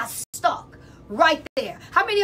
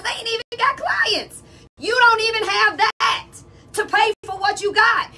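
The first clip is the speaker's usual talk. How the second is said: exasperated outburst; 6 semitones higher, 4 dB louder than usual. Real, not acted. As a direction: call them out, loud and higher. Scolding salon owners who lack clients.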